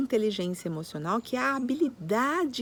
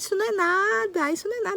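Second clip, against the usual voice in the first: dismissive adult; 10 semitones higher, faster than usual. Retold or imitated. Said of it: "Aí vem o adulto e fala".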